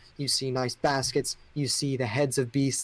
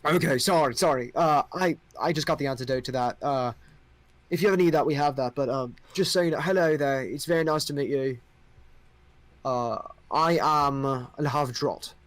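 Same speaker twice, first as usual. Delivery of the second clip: a polite king after the antidote; young king. Acted. King apologizing to adventurers, lightly voiced. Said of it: "and he goes".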